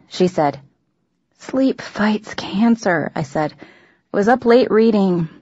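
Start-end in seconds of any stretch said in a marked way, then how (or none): 1.4-5.3 slow, half-whispered sleepy protest; sleepy mumble. Acted. Teen just jolted awake by mom, sleepy mumble. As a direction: drag the words out, barely awake.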